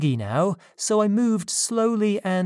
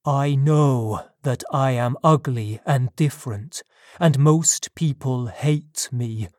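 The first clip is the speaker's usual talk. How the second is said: lightly voiced monster, bitter and deliberate; a hint of an aggrieved monster; lightly played outcast creature answering its maker; wounded creature; 2 semitones lower than usual.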